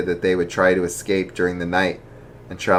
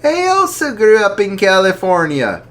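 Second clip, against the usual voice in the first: jolly archbishop; 12 semitones higher, 6 dB louder than usual. Acted. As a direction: ask gently but heartily. Archbishop voiced in story.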